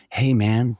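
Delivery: awed American tourist drawing out Durham; mock American accent. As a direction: play an impressed American visitor, lightly. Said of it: "there's a lot of Americans".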